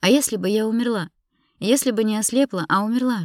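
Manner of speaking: high, loud, distressed questioning; distraught accusation; anguished reproach. Acted. Tearful wife confronts him with what-ifs.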